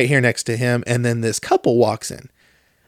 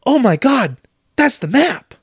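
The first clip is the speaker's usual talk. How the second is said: high, gasping mock excitement; mock excited girlfriend; 10 semitones higher than usual. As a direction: imitate her gushing over every clue, much higher. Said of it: "She was like".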